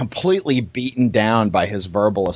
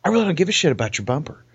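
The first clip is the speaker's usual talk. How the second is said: exasperated retort; 5 semitones higher than usual. Retold or imitated. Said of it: "look at him like".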